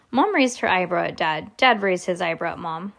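ordinary delivery, nothing marked

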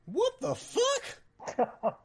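loud, high, drawn-out exclamation of disbelief; exasperated outburst. Real, not acted. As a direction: blurt it out high and slow, exasperated. Outburst at the answer being guessed.

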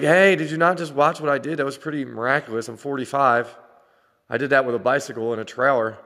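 mock-indignant bragging, starting high and easing off; hey, look what I did, half-joking; indignant boast. Acted boast to the other parent.

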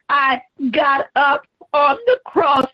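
preached Jesus, straining then crying out; Jesus on the cross. Acted. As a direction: shout through the weight of the cross.

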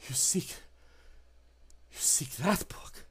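unvoiced, wary whisper; creature whisper. The creature whispers back to John, wary. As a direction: hiss the question in disbelief.

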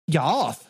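"Yoth" with a th lisp; half-successful lisped "Yoth"; attempted lisp. Shown as a demonstration. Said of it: "The lisp thing. Dude, I can't".

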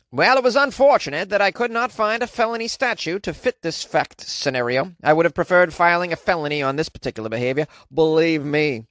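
lightly voiced 1930s radio announcer; hint of an old-timey newsreel voice. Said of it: "I gave the D A an old-timey nineteen thirties voice".

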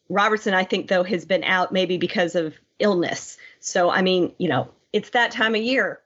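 stuffy, blocked-nose cold voice; nasal voice. Real, not acted. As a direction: talk through a head cold, nasal. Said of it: "hence my nasally voice today".

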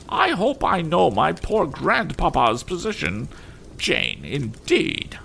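very high, slow imperious lady; majestic, haughty. A narrator's reading. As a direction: pronounce it with regal disdain. Mrs Pocket voiced in story.

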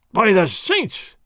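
slow, drawn-out roar of an oath. A narrator's reading. Sergeant roaring his oath at the taunting don. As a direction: roar it like thunder. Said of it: "Sergeant Gonzalez roared".

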